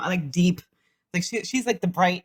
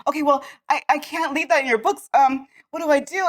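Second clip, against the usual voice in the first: frantic clerk; 5 semitones higher than usual. Retold or imitated. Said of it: "frantically running around".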